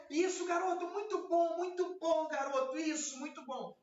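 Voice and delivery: upbeat but measured praise; moderate praise. Shown as a demonstration. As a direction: praise warmly, not too much. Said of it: "Não dá muito florinho não".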